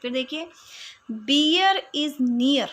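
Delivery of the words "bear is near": very slow, each word drawn out, first words whispered; slow example reading. Shown as a demonstration. Teacher reads the example slowly for her pupils. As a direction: draw out every word of the example. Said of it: "अब देखो bear, near, fear".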